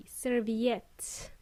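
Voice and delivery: serviette with a clear v; serviette, careful v in the middle; v sound. Shown as a demonstration. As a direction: model "serviette" with a V for learners. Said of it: "with a V".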